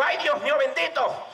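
high, slow exclaiming; elated exclamation. Acted. Teller finishes drumming and expects glory, high exclamation.

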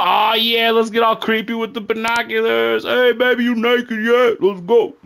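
high, loud sleazy creep; creepy guy voice. Retold or imitated. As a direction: ham it up as a leering creep. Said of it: "People be fucking up, you know?".

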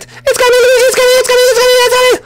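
very high panicked cry; high-pitched birth scream; screaming princess in labour. Acted. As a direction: shriek it out. Peach in labour.

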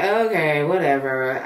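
flat okay, whatever with an eye roll; dismissive eye roll. Retold or imitated. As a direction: brush it off like you're over it. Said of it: "I just roll my eyes".

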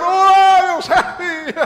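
loud, high, booming hail; overfamiliar greeting. Shown as a demonstration. Father shows son how not to greet the boss, boisterously. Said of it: "você não vai chegar".

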